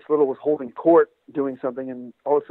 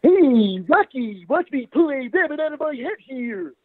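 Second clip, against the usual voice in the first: high, slow cartoon moose voice; goofy cartoon moose announcing a magic trick; Bullwinkle impression; 11 semitones higher, 4 dB louder, slower than usual. Doing Bullwinkle for the host, high and slow cartoon moose. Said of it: "guess who this is".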